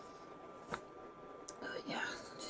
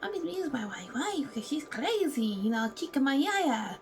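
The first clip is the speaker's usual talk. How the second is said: higher, breathy whispered confession; mock whispering client; 4 semitones higher than usual. Mocking a client confessing about his wife, high whisper. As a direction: confide it like a dramatic client in secret. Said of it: "you got the criers".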